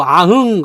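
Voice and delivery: short mock tiger roar; playful tiger growl. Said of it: "호랑이 와가지고".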